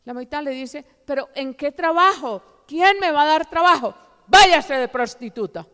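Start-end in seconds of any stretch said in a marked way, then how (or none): 1.0-3.9 raised, pleading question, retold; protesting girl. Girl protests to rejecting mother. 4.2-5.7 loud, scornful order, retold; cruel dismissal. Mother cruelly rejects daughter.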